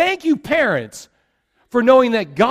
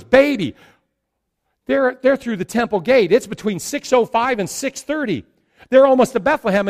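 louder, higher, hurried excitement; urgent Mary; 5 semitones higher, 4 dB louder than usual. Retold or imitated. Mary urging Joseph on the donkey, louder and higher, urgent. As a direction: press it out like an expectant mother nudging her husband. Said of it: "She goes".

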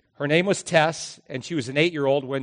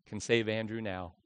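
hushed and desperate, trailing softer; a soft, despairing near-whisper; whispered desperation; 3 semitones lower, 5 dB quieter than usual. Retold or imitated. Father to tearful mother, hushed desperate whisper. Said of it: "with whispered desperation".

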